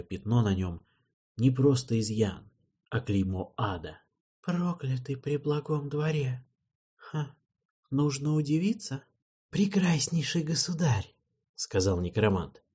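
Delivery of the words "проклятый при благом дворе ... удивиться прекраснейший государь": soft, sly, fawning necromancer; oily, quiet courtier's sneer; sneering gloating dark voice. Acted.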